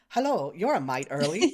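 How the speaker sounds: a hint of an old-timey British greeting; odd British accent. Mocking the comic's accent for Tavros, lightly put-on British. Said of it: "I don't know what accent they're giving him".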